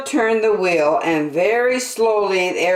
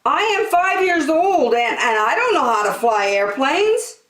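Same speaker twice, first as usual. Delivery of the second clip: put-on scared little girl; 8 semitones higher, 5 dB louder than usual. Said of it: "Angela said".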